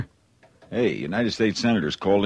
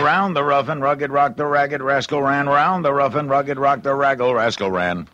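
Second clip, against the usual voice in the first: tongue twister; 6 semitones higher than usual. Shown as a demonstration. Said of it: "We say that three times".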